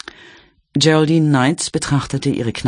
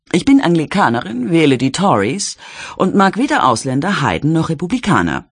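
higher, brassy Cockney lady trying to sound proper; a barmaid putting on airs, pitched up; Jelly's genteel Cockney; 6 semitones higher than usual. A narrator's reading. Jelly teases Percy about visiting the slums, higher would-be posh Cockney. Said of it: "Sie klang wie eine Cockney".

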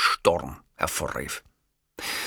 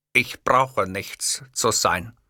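slow, unbothered reply; calm; much slower than usual. Acted. Narrator calmly answering the raging host. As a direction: say it with cool composure. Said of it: "sagte ich gelassen".

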